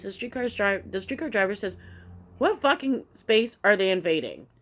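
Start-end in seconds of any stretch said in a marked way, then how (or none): 2.4-4.5 louder, incredulous comeback; mock indignation, pushed out loud; retold exasperated retort. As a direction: imitate a fed-up driver's challenge.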